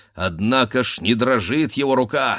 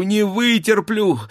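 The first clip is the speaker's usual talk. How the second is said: "вытерплю" pushed even higher and harder; second, more desperate "не вытерплю"; wife crying out as the sabres ring; rising anguish; 11 semitones higher, 3 dB louder than usual. Acted. Wife frantic during sabre fight.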